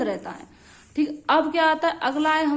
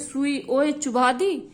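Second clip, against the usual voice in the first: slow mnemonic; slower than usual. Shown as a demonstration. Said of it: "आप इसको ऐसे ही बोलते हैं".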